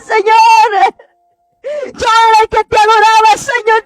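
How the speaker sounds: a tearful shout of Señor; anguished cry. Retold or imitated. People in the dream crying out to the Lord, anguished.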